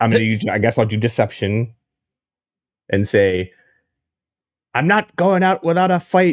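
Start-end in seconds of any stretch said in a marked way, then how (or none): 4.7-6.3 put-on boyish character voice, pitched up like young boy. Using deception by imitating the boy's voice: imitating a ten-year-old boy's voice. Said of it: "I do my best to imitate his, his voice".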